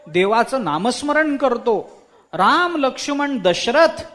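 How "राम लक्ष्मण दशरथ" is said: parrot squawk. Acted. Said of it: "असं तो पोपट ओरडतो".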